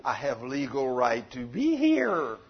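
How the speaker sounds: low, slow devil talking back; devil answering back. Acted. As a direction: lightly voice the devil, dropped in pitch and unhurried. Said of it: "He says".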